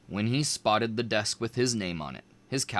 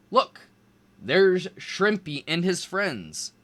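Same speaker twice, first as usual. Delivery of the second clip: taunt; 7 semitones higher, slower than usual. A narrator's reading. Bully taunting.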